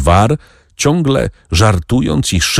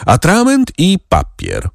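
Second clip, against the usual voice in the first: high-pitched command without real volume; restrained narrator's yell; mild shouted order; 12 semitones higher than usual. A narrator's reading. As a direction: call the order to a servant. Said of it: "krzyknął na lokaja".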